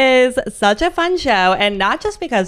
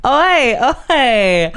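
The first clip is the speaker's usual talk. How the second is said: mock Australian oi; 3 semitones higher, 4 dB louder than usual. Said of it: "We're, we're Australian today".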